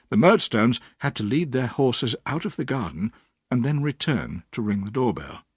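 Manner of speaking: ordinary delivery, nothing marked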